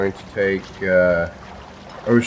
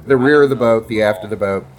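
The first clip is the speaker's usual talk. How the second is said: amused, louder correction; laughing self-correction; 3 semitones higher, 3 dB louder, faster than usual. Real, not acted.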